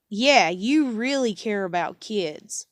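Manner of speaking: sarcastic. Real, not acted. Sarcastic jab repeated.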